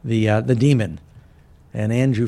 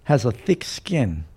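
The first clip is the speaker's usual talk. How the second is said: measured, emphatic sermon recitation; preaching quote; 2 semitones higher than usual. Retold or imitated. Preacher quoting John Bunyan to the congregation, emphatic. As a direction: deliver Bunyan's words with preacher's weight. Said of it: "John Bunyan said".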